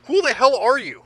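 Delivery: angry demand. Acted. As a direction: demand it hotly. Captive confronts unseen captor.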